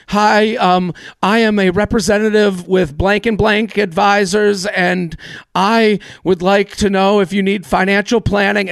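a light take on a nervous caller; nervous intern reading. Retold or imitated. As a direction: play the jittery kid on his first cold call. Intern nervously reads cold-call script.

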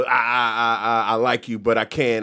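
low, stammering excuses of a retold guy; mock noncommittal stammer; wishy-washy waffling. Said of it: "he started doing all the".

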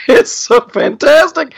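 very high, strained impersonation voice; Jordan Peterson impression. Shown as a demonstration. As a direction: crank the voice up high to mimic him. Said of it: "I'm doing an impression of my buddy".

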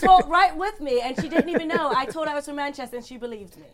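insistent fake British accent; put-on British accent. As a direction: argue your case, stuck in mock British. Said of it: "Now she's stuck in it".

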